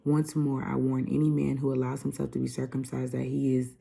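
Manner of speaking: loud, emphatic Bible reading; scripture reading. Acted. Vlogger reading Galatians to viewers, preaching loudly. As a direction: read it like a preacher at the pulpit. Reads Galatians five aloud.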